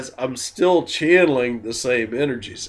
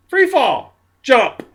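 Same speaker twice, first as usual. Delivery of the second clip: excited shout; 11 semitones higher, 5 dB louder than usual. Real, not acted. Urging to let go.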